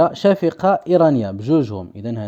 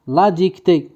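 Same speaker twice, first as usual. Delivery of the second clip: dictation voice; 3 semitones higher than usual. Shown as a demonstration. Teacher giving pupils a word to write, dictation voice. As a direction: clear dictation of a single word.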